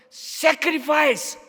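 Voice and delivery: sacrifice stretched very slow and high; drawn-out emphatic sacrifice; stress on sacrifice. Real, not acted. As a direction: lean hard on sacrifice. Key word drawn out.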